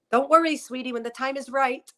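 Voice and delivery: put-on a light touch of a sweet old teacher; grandmother's voice. Medium voices a spiritual grandmother to Bridget, lightly sweet. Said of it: "she talks in this voice".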